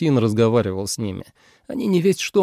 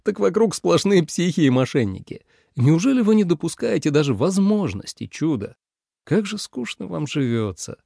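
laughing; 6 semitones higher than usual. A narrator's reading. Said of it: "смеясь".

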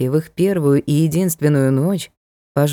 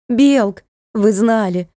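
furious accusation; 4 semitones higher than usual. Acted. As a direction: hurl the accusations at them. Daughter raging at deceivers.

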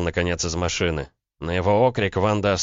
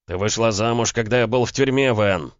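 raised, accusing male voice; angry bark; 5 semitones higher, 4 dB louder than usual. A narrator's reading. Man reproaching woman for marrying during his imprisonment, angry bark. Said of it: "рявкнул Ромка".

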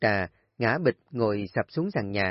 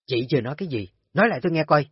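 angry challenge; 4 semitones higher, 5 dB louder, much faster than usual. Acted. Nga confronts Kim.

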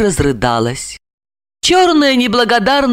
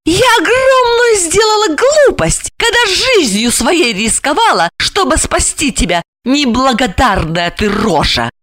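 furious reproach; 9 semitones higher than usual. A narrator's reading. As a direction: scold the ungrateful man. Alexandra berates him. (гневно упрекая)

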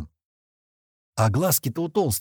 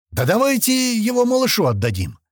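much higher, loud voice; loud joking offer; 12 semitones higher, 5 dB louder than usual. A narrator's reading. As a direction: call it out for all to hear. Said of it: "громко сказал Туча". (громко и высоко, с издёвкой)

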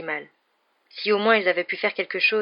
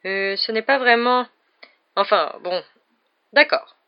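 slow, hesitant, reluctant giving in; hedge, then give in on a higher note; ill at ease; 3 semitones higher, 4 dB louder, slower than usual. A narrator's reading. Cornered professor reluctantly lets two pupils in, ill at ease. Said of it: "paraissait particulièrement mal à l'aise".

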